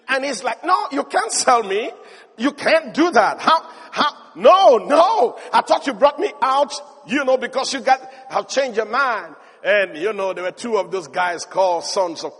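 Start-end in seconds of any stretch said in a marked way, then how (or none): 0.6-9.4 rising panic, louder, then fading; panicked pleading. Retold or imitated. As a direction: plead in growing alarm. Joseph pleads in retold story.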